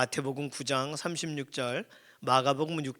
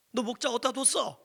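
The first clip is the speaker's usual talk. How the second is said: high-pitched accusing question; acted telling-off, pitch jumping up; mock scolding; 8 semitones higher than usual. Demanding answers from a lost sheep, mock scolding. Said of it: "이렇게 야단칠 수 있어요".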